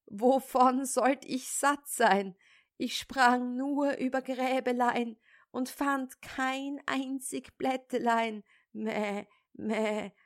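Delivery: hohe, jammernde Ziegenstimme mit Meckern am Ende; klagende Ziege. Acted. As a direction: beschwer dich wie eine hungrige Ziege. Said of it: "Die Ziege antwortete". (Ziege klagt dem Vater, lügend hungrig, meckernd)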